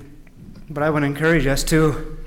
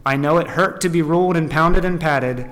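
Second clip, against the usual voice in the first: deliberate, measured storytelling; emphatic read-aloud phrasing; story narration. A narrator's reading. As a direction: read the tale out to a congregation.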